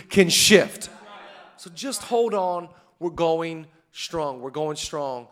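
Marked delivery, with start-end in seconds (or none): 1.6-5.3 hushed, tender chant; quiet slow refrain. Acted. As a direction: draw the room in close. Same refrain, brought down.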